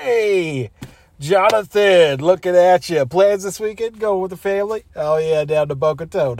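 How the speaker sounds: hearty, chummy office hello; jovial small talk, laid on thick; fake friendly greeting. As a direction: greet him like a great pal. Fake friendly greeting to hated coworker.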